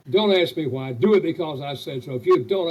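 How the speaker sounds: loud, bossy parent laying down the law; don't explain, just command; stern parent. Retold or imitated. Action-type parent barking orders at a child, stern.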